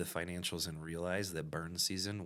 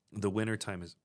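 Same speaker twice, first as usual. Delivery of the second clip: talking through hiccups; words broken by a hiccup; 3 semitones higher, 6 dB louder than usual. Real, not acted. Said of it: "I got the hiccups for some reason".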